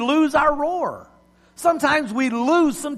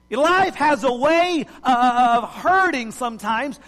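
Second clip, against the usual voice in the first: preaching. Acted. Preacher repeats theme.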